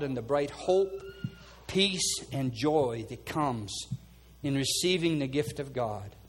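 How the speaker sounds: earnest pastoral prayer over the room; fervent prayer. Acted. Pastor praying over his congregation, fervent prayer. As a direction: pray it out over the people, rising and falling.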